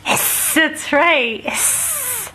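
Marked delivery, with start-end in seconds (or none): 0.0-0.5 a soft whispered hiss; unvoiced snake hiss, no voice at all. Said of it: "What does a snake say?". 1.4-2.3 a much higher, softer hiss; high, soft, faint hiss; squeaky hiss. Pretend. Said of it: "What does a snake say?".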